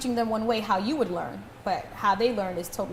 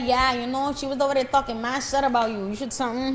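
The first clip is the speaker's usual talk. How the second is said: put-on Spanish accent. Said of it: "Was that her Spanish accent?".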